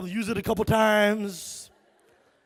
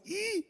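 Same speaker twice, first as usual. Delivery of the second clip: put-on high squealing kid cry; mock crying squeal; 12 semitones higher, 5 dB quieter than usual. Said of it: "He's going".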